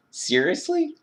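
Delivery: high disbelieving "seriously?"; incredulous. Real, not acted. Speaker to viewers, high incredulous pitch.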